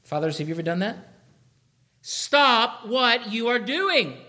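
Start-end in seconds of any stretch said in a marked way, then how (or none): 2.0-4.2 louder, slow, commanding stop; a father shouting his kid to a halt; slow, firm shout at a child; mock stern shout. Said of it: "you need to shout at people".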